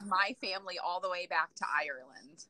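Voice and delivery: soft unvoiced whisper. Real, not acted. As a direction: breathe it like a secret. Whispered aside.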